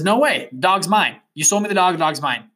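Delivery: acting out a stubborn refusal; firm refusal. New owner refusing to sell the dog back, indignant.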